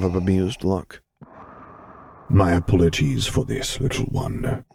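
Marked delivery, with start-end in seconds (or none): 2.3-4.6 soft rumble. Acted. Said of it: "Vader rumbled softly".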